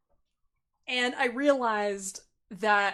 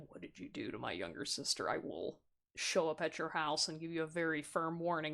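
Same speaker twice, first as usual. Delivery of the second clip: put-on aggressive older sibling; 6 semitones lower, 10 dB quieter than usual. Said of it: "like, aggressive tone".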